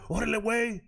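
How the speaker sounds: put-on Mexican slang accent; mock Chicano street talk. Streamer mocking how he doesn't talk, hammed-up Mexican street accent. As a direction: exaggerate a Mexican street-slang Spanish lilt. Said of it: "I don't talk like that".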